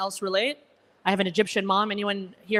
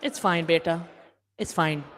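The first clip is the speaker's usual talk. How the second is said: judgmental mom; 4 semitones lower than usual. Retold or imitated. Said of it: "It looks like this".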